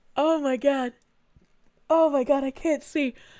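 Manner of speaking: helpless, eye-watering laughter, laughing very hard. Reacting to a chat message, laughing so hard eyes water. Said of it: "My eyes are watering so fucking hard".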